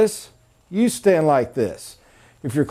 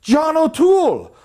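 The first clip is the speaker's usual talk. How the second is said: much higher, loud, a hammed-up Irish salesman's greeting; over-the-top Irish accent greeting, louder on the opening; mock Irish accent; 11 semitones higher, 3 dB louder than usual. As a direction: ham up an Irish accent to match the customer. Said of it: "went with the accent".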